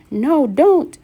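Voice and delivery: high desperate cry of no; screamed plea. A narrator's reading. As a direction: scream to stop him. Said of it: "Annabeth screamed".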